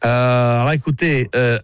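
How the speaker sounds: overly polite, pompous customer voice; lightly voiced pompous client phoning a hotel; posh prank caller. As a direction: play the fussy gentleman booking a room.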